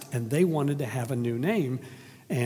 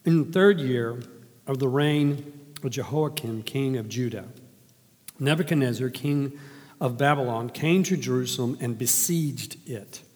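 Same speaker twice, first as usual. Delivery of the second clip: measured, formal reading of scripture. Acted. Reads Scripture aloud.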